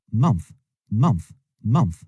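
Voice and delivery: month ending on a TH; TH sound in month. Shown as a demonstration. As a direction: finish month on an audible TH. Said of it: "avec T H qui se prononce comme ça". (month avec le son TH final)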